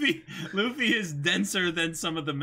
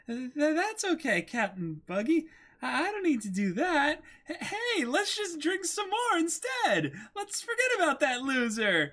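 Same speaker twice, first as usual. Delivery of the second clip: nervous dodge; 8 semitones higher than usual. Acted. Nami dodging the order nervously.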